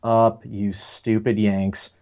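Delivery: lightly voiced fed-up Brit; annoyed UK listeners. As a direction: imitate a listener slowly telling off Americans. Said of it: "U K listeners who are just like".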